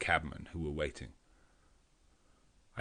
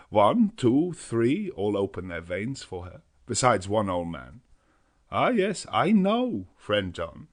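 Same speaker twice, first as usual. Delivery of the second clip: put-on high, loud, emotional old professor; overflowing with gratitude; Van Helsing moved, voice rising; 4 semitones higher, 6 dB louder than usual. A narrator's reading.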